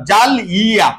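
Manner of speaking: জালিয়া broken as জাল ইয়া with a pause; split syllables. Shown as a demonstration. Teacher breaking the word apart for students. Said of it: "উচ্চারণ করো".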